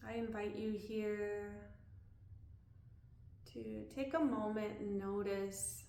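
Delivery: calm body-scan guidance with long pauses; unhurried, leaving room to breathe between phrases; guided meditation. Real, not acted. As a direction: guide them gently through a body scan.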